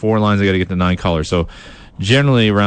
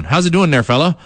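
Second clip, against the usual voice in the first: put-on East Coast accent; 6 semitones higher than usual. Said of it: "I speak in a, uh, East Coast accent".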